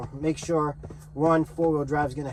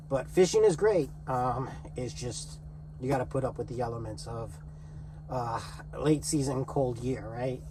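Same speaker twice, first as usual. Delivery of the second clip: out of breath. Real, not acted. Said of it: "Sorry I'm out of breath".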